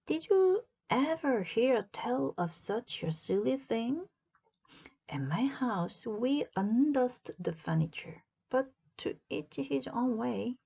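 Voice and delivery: lightly voiced, amused housemaid; Amelia's voice. Amelia marvels at strange house rules, amused. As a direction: marvel at a silly idea.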